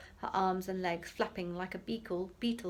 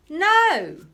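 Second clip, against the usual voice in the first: sudden high yell of NO; explosive furious no; shout; 11 semitones higher, 18 dB louder than usual. Acted. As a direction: bellow it to make her jump. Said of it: "the professor shouted".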